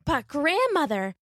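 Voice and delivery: put-on high, polite little girl voice; a small girl minding her manners. Little Red thanking the wolf, high and polite.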